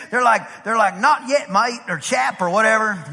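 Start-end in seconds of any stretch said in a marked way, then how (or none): 1.0-1.8 mock British accent slipping into Australian. British fisherman answering the preacher, accent slipping into Australian. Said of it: "I went Australian on 'em". 2.0-2.4 put-on botched British-turned-Australian accent. Preacher imitating British fisherman, Australian-sounding accent. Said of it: "I went Australian on 'em".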